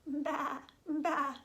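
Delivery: lightly imitated bleating; lamb bleat. Storyteller shows children what lambs say, light bleat. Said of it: "What do lambs say?".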